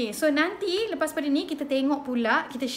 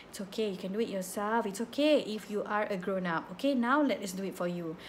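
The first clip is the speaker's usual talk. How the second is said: calming; 4 semitones lower, 4 dB quieter than usual. Retold or imitated. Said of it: "doktor semua kena calmkan dia".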